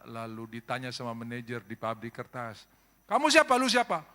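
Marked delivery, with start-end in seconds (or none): 3.1-4.1 much higher, loud boss demand; demanding shout. Acted. Factory manager shouts at Padang worker. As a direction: bark the question at the worker.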